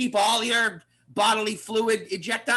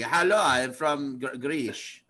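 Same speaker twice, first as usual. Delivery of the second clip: put-on terrible Greek accent; 4 semitones lower, much slower than usual. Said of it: "That's a terrible Grecian accent".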